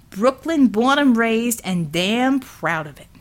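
a working man stepping in to stop a beating; defiant Brooklyn union man. Acted. Hensel proud.

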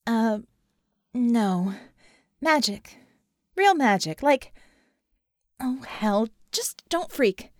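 anxious woman insisting it's real; flustered insistence. Acted. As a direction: plead with him not to panic.

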